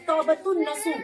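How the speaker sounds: तौबतुन नसू with the न doubled and no l sound; pronunciation demo. Shown as a demonstration. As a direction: join तौबतुन to नसू with a long न. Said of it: "तो उसको हम तौबतुन नसू कहते हैं". (तौबतुन नसू, लंबा न, बिना लाम)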